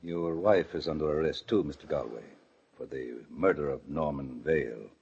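low, soft policeman's voice; quiet official announcement. Acted. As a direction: deliver the charge quietly and gravely. Policeman quietly announces second arrest.

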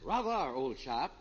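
a mock upper-class British accent. Red shows off his borrowed British accent before the London trip. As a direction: put on a jaunty British toff accent. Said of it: "Where did you get this British accent".

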